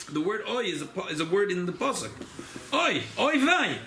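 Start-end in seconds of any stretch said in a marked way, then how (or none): 2.7-3.8 demo moan. Shown as a demonstration. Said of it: "when he moans".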